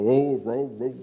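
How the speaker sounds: a hint of a put-on male voice, low and drawn out; mock man's voice. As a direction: lightly imitate a woman faking a man's voice while prophesying. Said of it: "faz a entonação de voz de homem". (imitação leve de voz de homem na profecia)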